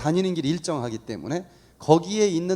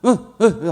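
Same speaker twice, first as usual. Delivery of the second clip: short, louder mimed grunts; imitated urgent grunts; 3 semitones higher, 6 dB louder, slower than usual. Imitating the son grunting as he goes to eat. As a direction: mimic wordless grunting for food. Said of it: "또 먹으려면".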